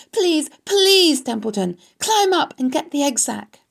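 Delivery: high, pressing, pleading voice; urgent cry. A narrator's reading. Wilbur begs the rat to fetch the egg sac, urgent cry. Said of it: "cried Wilbur".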